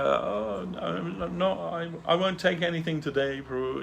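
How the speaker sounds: high, soft acted refusal; retold polite refusal. Devotee turning down the lunch offer, high soft refusal. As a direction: decline in a lifted, softened voice.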